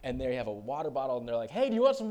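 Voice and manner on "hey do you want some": high, loud imitation of girls offering a drink; shouting over band. Girls offering a bottle while the band plays, mock muffled shout. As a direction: yell it so the words blur in the noise.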